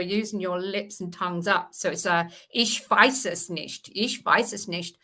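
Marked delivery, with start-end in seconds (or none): 2.5-3.9 slow German, lips and tongue up; lightly voiced German accent, slow and deliberate. Shown as a demonstration. Actress demonstrating German to the stream, slow German accent. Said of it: "German is also at the back". 3.9-5.0 lightly voiced German, repeated; German accent. Shown as a demonstration. Repeating the German demo for the group, light German accent. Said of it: "German is also at the back".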